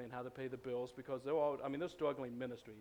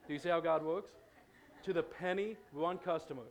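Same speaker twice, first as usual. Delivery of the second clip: amazed; 4 semitones higher, 5 dB louder than usual. Real, not acted. Pastor marvels at answered prayer.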